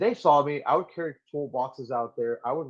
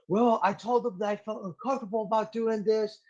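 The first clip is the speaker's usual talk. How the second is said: higher mock excuse; 9 semitones higher than usual. Imitating the junior Marine's excuse.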